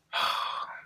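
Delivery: long unvoiced sigh of disbelief; weary sigh. Sighing at the friend who wants her number. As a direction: let out a tired, exasperated breath. Reacting to a drunk friend's request.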